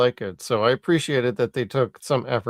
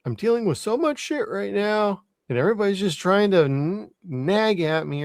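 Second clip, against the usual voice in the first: imitating Crichton; 8 semitones higher than usual. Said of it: "He's probably like".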